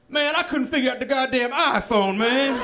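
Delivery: put-on high old-man admission; sheepish old dad. Dad admitting to son why he quit, high old-man voice. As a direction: imitate dad grudgingly confessing. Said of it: "He's like".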